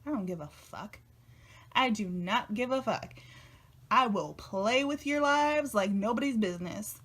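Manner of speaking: lightly acted swagger, each word deliberate; mock self-assured declaration, building from offhand to emphatic; confident devil woman. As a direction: voice her cool, don't-care confidence. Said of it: "she's got this air of confidence".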